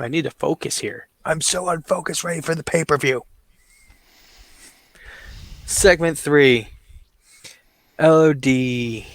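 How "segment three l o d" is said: slow, deliberate segment announcement; announcer. Pretend. Presenter opening segment three, slow announcer delivery. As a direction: announce the team with drawn-out letters.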